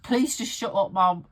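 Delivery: loud laughing plea; begging through laughter. Retold or imitated. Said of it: "I'm like".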